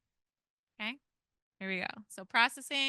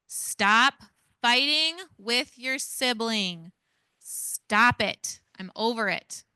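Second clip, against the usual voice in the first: yelling parent; 2 semitones higher, 4 dB louder, much slower than usual. Shown as a demonstration. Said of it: "I'm going to yell".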